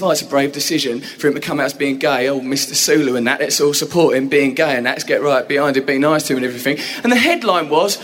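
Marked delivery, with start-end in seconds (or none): 0.0-6.8 mock compassionate. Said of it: "the article was really compassionate and sensitive".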